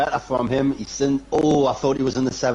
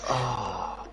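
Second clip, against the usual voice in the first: laughing sigh; 3 semitones lower, 10 dB quieter than usual. Real, not acted. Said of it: "I'm literally fucking crying".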